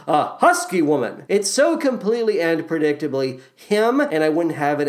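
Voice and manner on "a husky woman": dry deadpan, stress on husky; lightly imitating a dry deadpan delivery; David Hyde Pierce impression. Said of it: "He essentially says it as".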